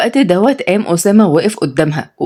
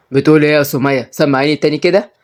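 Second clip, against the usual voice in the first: lower-pitched domineering man; suspicious challenge; 4 semitones lower than usual. Acted. Osama catches Sumaya cursing him, suspicious and low.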